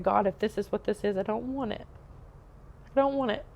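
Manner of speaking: frustrated cry upward to God; desperate plea to God. Retold or imitated. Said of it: "I said out loud".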